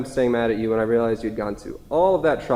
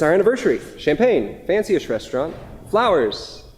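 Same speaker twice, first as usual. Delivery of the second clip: forced cheer; 5 semitones higher than usual. Acted. Paul forcing cheer at anniversary.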